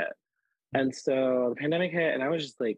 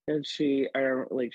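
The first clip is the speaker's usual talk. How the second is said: normal talking voice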